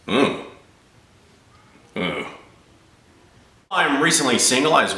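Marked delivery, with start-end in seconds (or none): 0.1-2.3 short wordless "mm"; boom operator's hum. Acted. Boom mic operator reacting on a porn set, understated hums. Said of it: "a boom mic operator on gay porn".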